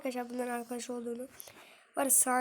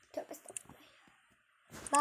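whispered tövbe; 2 semitones higher, 3 dB quieter, slower than usual. Real, not acted. Exasperated muttered prayer.

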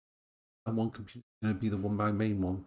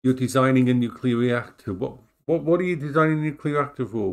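louder, disbelieving questions; incredulous; 7 dB louder than usual. Real, not acted. Watching a friend's game, loud incredulous questions. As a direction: sound amazed at the idea.

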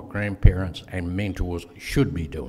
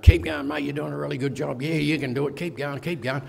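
higher-pitched cheering on from behind; quick, raised-pitch team shout, not full volume; mock yelled encouragement; 5 semitones higher than usual. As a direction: egg a mate on, as if calling up the line. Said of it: "I'm yelling out to people".

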